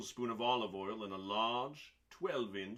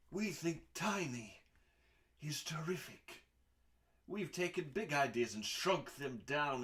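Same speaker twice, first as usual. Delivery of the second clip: we think tiny is said higher, then is terrific whispered; playful whisper; 4 semitones higher than usual. Acted. Reading a cookbook intro to readers, a playful whisper. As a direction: drop to a secretive whisper on the last words.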